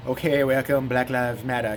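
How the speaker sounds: sleepy, low monotone interviewer; disinterested drowsy drone; drowsy Jesse Lee Peterson. Retold or imitated. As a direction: talk as if about to doze off. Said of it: "He talks like he's just gonna fall asleep".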